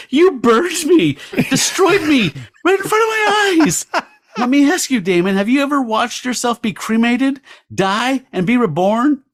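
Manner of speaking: high, strained, slowed wail of hurt; hammed-up anguished crying. Kathy accusing Damon of cremating her, mock tearful wail. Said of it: "clutching her face and crying".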